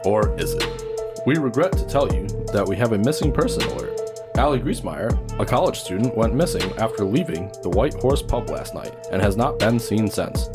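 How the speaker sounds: radio announcer voice; news bulletin. Acted. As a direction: read it like local news.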